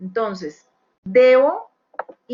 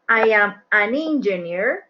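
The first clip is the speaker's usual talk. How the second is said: slow, clear model sentence; slow and clear for beginners. Shown as a demonstration. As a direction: spell it out slowly for the class. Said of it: "porque empieza con vowel".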